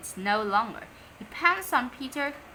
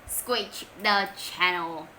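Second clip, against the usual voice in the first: ordering; 4 semitones lower, slower than usual. Acted. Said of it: "ordered Henry".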